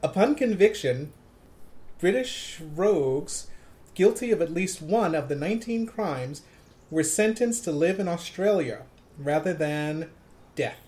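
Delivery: lightly voiced radio host reading copy, phrase by phrase; measured DJ read with pauses between phrases; Casey Kasem. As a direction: read it with a hint of countdown-show announcer. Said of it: "Channel Casey Kasem".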